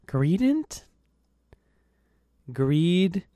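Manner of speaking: a touch of high mocking disbelief. Mocking the name.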